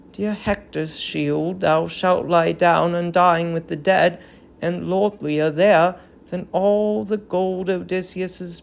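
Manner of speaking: solemn tragic verse, lightly voiced; a hint of an old queen grieving; grieving queen's lament. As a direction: mourn the fallen city in measured verse. Hecuba robes the dead child.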